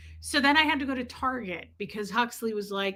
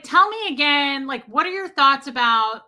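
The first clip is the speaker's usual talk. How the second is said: loud, higher-pitched chatty imitation; imitating loud speakerphone talker; 3 semitones higher, 5 dB louder than usual. Salon customer quizzing someone on speakerphone, mock-loud. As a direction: chat obliviously for all to hear. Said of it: "loud behind me".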